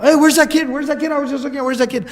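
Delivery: imitating a panicked fortune teller; freaking out. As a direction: act out someone starting to freak out. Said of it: "starts to freak out".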